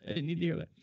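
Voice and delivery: hammed-up dismay; mock panic. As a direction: plead to not hear it. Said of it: "I go".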